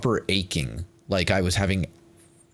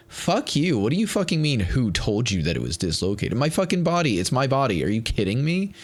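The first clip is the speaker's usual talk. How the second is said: real outrage; 5 semitones higher than usual. Real, not acted. Venting anger at the doctor.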